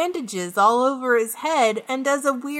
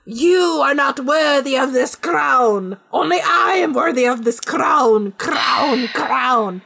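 hammed-up villain; 4 dB louder, slower than usual. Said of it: "Edgar goes".

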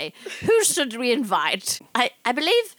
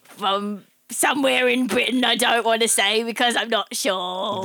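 vague mock-Cockney British voice; put-on British accent. The speaker dodges where she's from, put-on British accent. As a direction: fake a British accent, origin unsure. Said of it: "where did you get the accent from".

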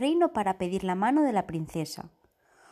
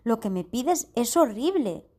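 pleading hunter; 3 semitones higher than usual. Acted. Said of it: "suplicó el cazador".

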